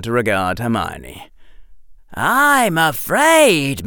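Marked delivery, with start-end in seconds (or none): none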